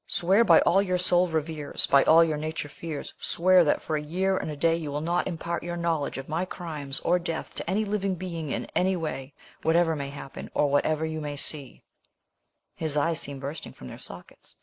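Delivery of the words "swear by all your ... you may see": exultant dying cry. Acted. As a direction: rise up and force the oath out. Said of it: "raising himself with exultant violence".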